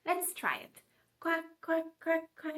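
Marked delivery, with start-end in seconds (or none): 1.2-2.5 duck quacks. Shown as a demonstration. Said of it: "say quack like the yellow duck".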